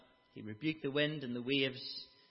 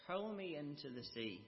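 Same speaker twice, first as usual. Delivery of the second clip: softer flat refusal; quiet stubborn; 5 dB quieter than usual. Retold or imitated. Stubborn Jonah asking sailors to throw him, quiet. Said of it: "He said".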